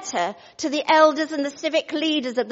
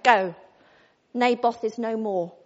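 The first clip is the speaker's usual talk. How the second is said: mock solemn pronouncement; 3 semitones lower than usual. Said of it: "I expect she didn't speak like that".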